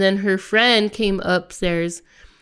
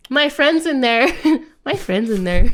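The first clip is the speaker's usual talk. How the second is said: laughing mimicry; 4 semitones higher than usual. Mocking the girl, laughing.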